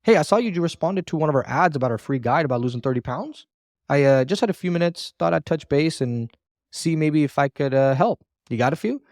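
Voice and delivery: pauses around "I, uh" and before "help"; natural pauses. Shown as a demonstration. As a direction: hesitate on "uh" as if thinking it up. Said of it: "Notice how I'm pausing in between words".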